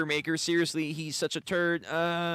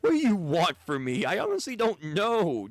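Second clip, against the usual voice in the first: heated quarrel; 6 semitones higher than usual. Acted. Roto and the broker quarrel.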